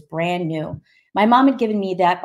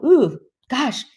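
startled; 5 semitones higher, 5 dB louder than usual. Retold or imitated. Reacting to second verse.

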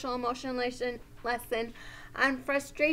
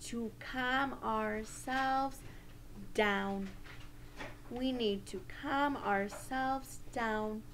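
soft, soothing delivery; calming voice; 6 dB quieter, slower than usual. Shown as a demonstration. Teacher helping children calm themselves, soothing voice. Models calming down after breaths.

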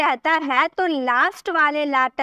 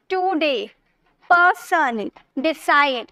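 टुडे, पर्सन, डिसाइड each in two beats; two-syllable beats; slower than usual. Shown as a demonstration. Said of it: "दो syllable होंगे तो आपको ऐसे बोलना".

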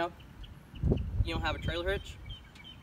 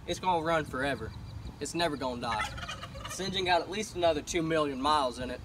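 a lightly voiced tough cowboy, proud and folksy; hammed-up cowboy; 2 semitones higher, 4 dB louder than usual. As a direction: play a boastful rancher showing off his truck. Cowboy character skit continues.

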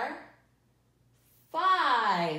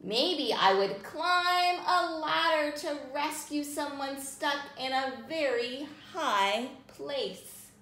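put-on reading to children. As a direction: read gently to little listeners. Reading picture book to children.

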